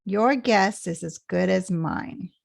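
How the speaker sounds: YOUR GUESS stressed, the rest falling away; stress at the beginning. Shown as a demonstration. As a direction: lean on YOUR GUESS, then drop off. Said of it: "where the stress is in the beginning".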